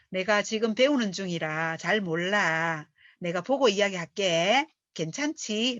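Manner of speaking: slow, modest offer to a partner; humble and gentle. Shown as a demonstration. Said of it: "라고 말하면". (파트너에게 겸손하고 차분하게 천천히)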